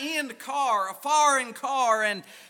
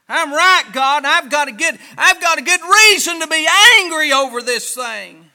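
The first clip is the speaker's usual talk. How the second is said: talking big; 2 semitones higher, 6 dB louder than usual. Retold or imitated. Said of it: "talking big again".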